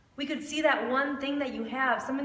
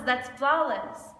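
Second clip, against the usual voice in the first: slow and deliberate; slower than usual. Acted. Refrain after each question.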